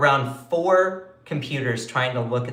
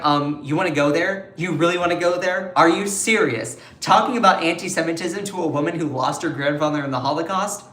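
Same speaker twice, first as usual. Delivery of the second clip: indignant quote; 2 semitones higher than usual. Retold or imitated. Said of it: "Balint was like".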